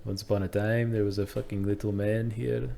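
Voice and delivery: Scottish attempt drifting toward Indian; failed Scottish accent. Demonstrating he can't do it, botched Scottish storyteller accent. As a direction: try Scottish and miss it. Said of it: "I can't do a Scottish accent".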